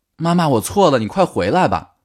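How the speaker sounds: put-on crying, tearful, high-pitched begging tone. Retelling calling out at the door to a mother, acting out crying pleading. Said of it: "哭着说".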